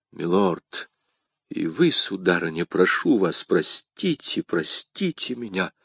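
soft, low, contrite apology; смиренная мольба о прощении. Acted. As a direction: beg forgiveness in a hushed voice. Abashed apology to duke and lady. (тихо, виновато, с мольбой)

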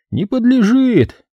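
slow, high terse ruling; curt verdict. A narrator's reading. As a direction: pronounce it flatly final. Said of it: "выдал лаконичный вердикт". (лаконичный вердикт)

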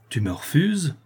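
contained anger. A narrator's reading. Master facing a servant's refusal, contained anger. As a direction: hold the temper in, rising in disbelief. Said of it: "contenant encore sa colère".

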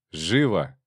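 sharp barked order; shout. A narrator's reading. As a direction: snap it out as a threat. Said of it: "крикнул Кадьяк".

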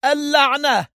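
sharp, high angry outburst; angry curse. A narrator's reading. Hossam swearing angrily at the empty cabin. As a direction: spit the curse out in anger. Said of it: "وهتف حسام في غضب".

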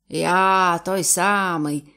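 slow, weighty confirmation; dignified. Acted. Captain gravely confirming to Bondi, slow and proud. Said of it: "поважно підтвердив капітан".

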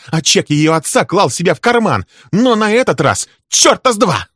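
high, loud, raging accusations; furious tirade. Acted. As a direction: unload years of grievance at him. Wife's furious tirade continues.

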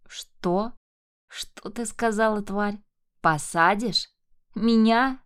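outraged disbelief climbing to a yell; rising rage. Acted. Mark enraged by threat. (ярость, нарастающая до крика)

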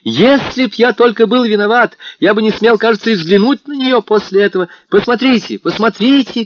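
put-on young man shouting joyfully to the narrator. A narrator's reading. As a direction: call out to his friend in rapture. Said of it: "кричал он".

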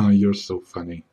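sexy spy voice. Acted. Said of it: "I keep my sexy voice even when I'm laughing".

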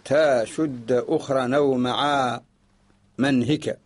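slow chanted verse; verse recitation. Shown as a demonstration. Teacher reciting the poem for students, slow chant. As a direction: intone each word slowly. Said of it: "ثم قال رحمه الله تعالى".

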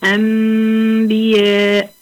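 demonstrating iqlab with held ghunna; slow tajweed recitation. Shown as a demonstration. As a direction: stretch أنبياء slowly, lips barely closing on the م. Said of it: "هتقرأ أم".

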